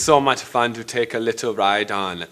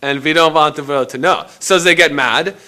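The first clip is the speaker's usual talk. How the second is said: heated rant; 6 semitones higher, 6 dB louder than usual. Acted. Heated rant against church.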